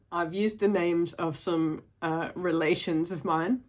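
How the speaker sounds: slow talk broken by real laughter; slow, giggly admission; laughing. Real, not acted. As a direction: chuckle through it, embarrassed. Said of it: "I'm laughing because".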